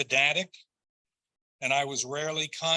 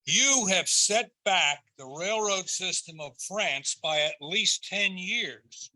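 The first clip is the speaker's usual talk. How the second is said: slow, dry mock reproach; a hint of sarcastic scolding; lightly sarcastic; 5 semitones higher than usual. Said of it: "he told me in a lightly sarcastic tone".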